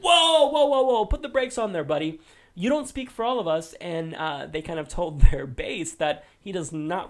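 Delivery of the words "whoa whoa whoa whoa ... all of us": mock alarm. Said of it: "the Republican establishment was like".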